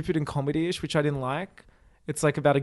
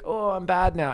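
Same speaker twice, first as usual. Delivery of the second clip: mock robot voice; 5 semitones higher, 3 dB quieter than usual. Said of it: "and so he's like".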